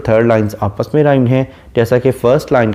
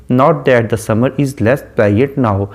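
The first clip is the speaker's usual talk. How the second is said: measured, unhurried poetry reading; slow poem recitation; much slower than usual. Shown as a demonstration. Teacher reading the sonnet to students, slow recitation. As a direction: read the verse line very slowly, savoring each word.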